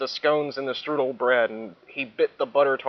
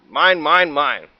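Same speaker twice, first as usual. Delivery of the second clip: echo; 2 semitones higher, 5 dB louder, slower than usual. Acted. Reader echoes the refrain.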